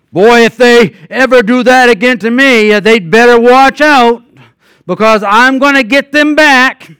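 hypothetical hurt believer threatening payback; mock angry threat. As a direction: play the wronged man vowing revenge. Voicing typical angry reaction.

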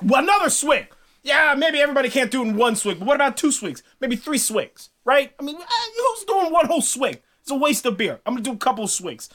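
defensive Thor. Acted. Thor excusing himself, voiced.

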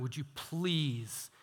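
understated, earnest appeal; pleading. Retold or imitated. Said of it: "It's like he's pleading".

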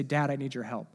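put-on worried child. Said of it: "some angst in their voice".

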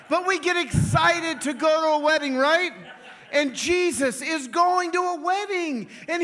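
high, loud excited burst; preacher hyping up the wedding crowd, loud and high. Real, not acted. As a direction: shout it with glee.

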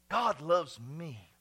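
God drawn out very slowly; slow, deliberate declaration; slow emphatic. Shown as a demonstration. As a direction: stretch God loves me slowly. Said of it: "I say this all the time".

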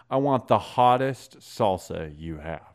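slow, deliberate mock demand; drawn-out, lightly voiced challenge; retold insistent customer. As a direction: imitate a customer insisting, word by word.

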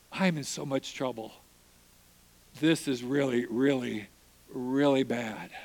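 a man realising he's in trouble; distressed. Retold or imitated. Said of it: "and I'm like".

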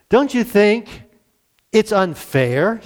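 a hint of a put-upon sister; mock complaint. Preacher mimics Martha complaining to Jesus, light whine. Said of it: "interrupts and says".

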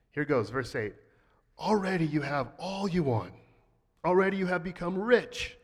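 earnest, sincere scripture reading; positive reading. Shown as a demonstration. Pastor reads the text in a positive light to the church. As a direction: read it straight as if it were praise. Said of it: "read all of this in a very positive light".

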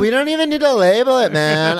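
mock stoner voice. Joins the acted quote.

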